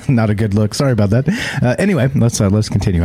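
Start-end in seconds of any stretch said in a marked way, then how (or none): 0.0-0.7 laughing. Real, not acted. Laughing after coughing fit.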